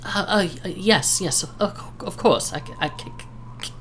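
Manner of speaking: put-on nervous stuttering old centaur. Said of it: "appears to have a bit of a stutter".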